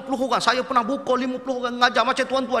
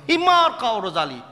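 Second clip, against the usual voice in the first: mock insult; 4 dB louder than usual. Arab teacher insulting a student, loud mock scold. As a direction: snap it like an angry teacher.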